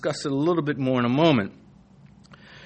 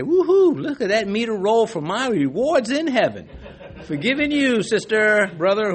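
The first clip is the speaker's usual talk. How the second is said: grinning glee; 7 semitones higher than usual. Retold or imitated. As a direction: cheer like you're racking up heavenly rewards. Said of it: "I sit there and I grin and I say".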